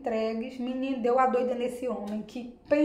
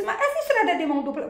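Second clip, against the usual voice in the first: laughing question; 7 semitones higher, faster than usual. Retold or imitated. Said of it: "E eu disse".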